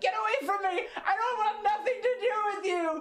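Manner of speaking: acted-out scream. Recounting turning on a girl who was chasing, retelling a scream. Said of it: "I turned around and I screamed at her".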